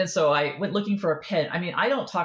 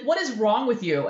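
high, incredulous scolding; mock-scold a clueless friend; exasperated friend; 6 semitones higher, 4 dB louder than usual. Best friend scolding her, high and incredulous.

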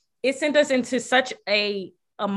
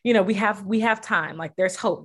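retold crying; 4 semitones higher than usual. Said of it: "And she was just crying".

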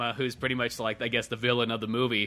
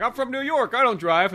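high, snooty protest; mock New Yorker; 10 semitones higher than usual. Friend voicing the cop from New York, snooty. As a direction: whine it like a city boy. Retelling movie dialogue.

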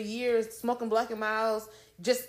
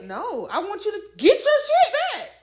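laughing; 10 semitones higher, 9 dB louder than usual. Real, not acted. Laughing protest.

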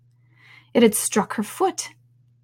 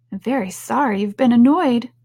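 lightly raised, earnest voice; Alice, apologetic; 4 semitones higher, 4 dB louder than usual. Acted. Alice apologising to the annoyed pigeon, apologetic. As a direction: offer sympathy in a higher voice.

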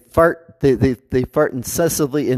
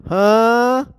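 startled huh; 6 semitones higher than usual. Retold or imitated.

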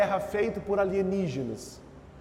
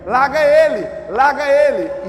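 loud, higher-pitched repeated urging; mimicked glib advice; 6 semitones higher, 8 dB louder, slower than usual. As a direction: egg them on like a casual friend, mockingly. Mimics glib advice from passing friend. (imitando conselho leviano, alto e insistente)

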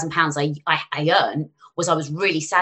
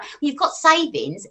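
slow, smug put-down; slow mock voice of friends turning it round; smug retort; 9 semitones higher, slower than usual. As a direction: drag it out like a smug gotcha. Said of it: "they're like".

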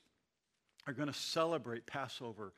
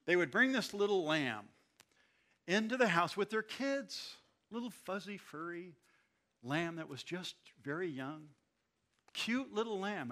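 gushing over the lamb; 4 semitones higher, 5 dB louder than usual. Real, not acted. Preacher gushing over cute lamb.

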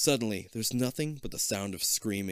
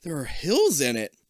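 put-on excited kid; 11 semitones higher, 6 dB louder than usual. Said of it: "Kip exclaims".

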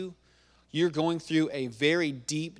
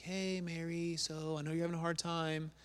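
soft, tentative approach, imagined; gentle sympathy; 3 semitones higher, 7 dB quieter than usual. Acted. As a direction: ease in softly as if comforting her.

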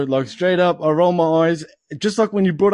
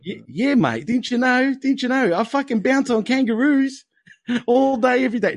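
put-on Aussie accent; 3 semitones higher than usual. Aussie teasing foreign co-host, hammed-up Australian accent. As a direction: play up the Aussie stereotype. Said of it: "what you put on for the fucking audience".

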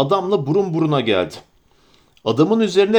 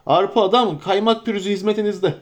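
higher, bustling innkeeper voice; innkeeper's introduction; 4 semitones higher than usual. Acted. Innkeeper Butterbur introducing himself to Frodo, eager. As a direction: Arpa Adam, Kaymak Pürüzü said with an eager bow in the voice.

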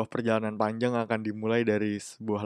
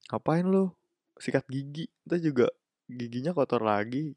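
mocking quote; 3 semitones higher than usual. Speaker mocks a lazy excuse about bathing, high and sarcastic. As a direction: mimic a lazy excuse with scorn.

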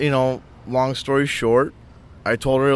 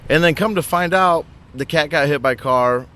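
normal talking voice

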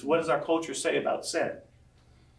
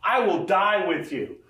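insistent Peter; 5 semitones higher, 4 dB louder than usual. Retold or imitated. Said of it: "Jesus is like".

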